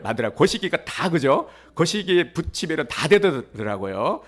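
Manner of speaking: usual speaking voice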